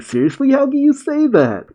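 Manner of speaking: high, shocked protest at the master; shocked disbelief. Acted. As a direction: she can't believe her master shrugs it off. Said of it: "Mirai is taken off guard by his nonchalant attitude".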